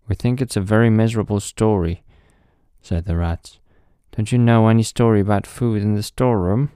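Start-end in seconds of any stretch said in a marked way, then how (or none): 0.1-2.0 fast, scornful rat voice. Acted. Rats judge the story. 4.1-6.7 fast, scornful rat voice. Acted. Rats ask about food.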